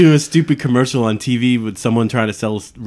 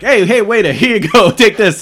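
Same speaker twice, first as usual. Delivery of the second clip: Rodney Dangerfield; 7 semitones higher than usual. Retold or imitated. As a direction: blurt it like a rude club guest. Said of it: "he's like".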